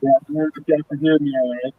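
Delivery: muffled, underwater-sounding call audio. Real, not acted. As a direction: voice breaking up, muffled line. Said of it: "No, he's underwater".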